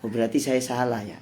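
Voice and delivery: soft, muttered self-reproach, said to oneself; quietly catching your own fault; inner realisation. Retold or imitated. Worshipper realising his fault, murmured softly to himself. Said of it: "dia merasa".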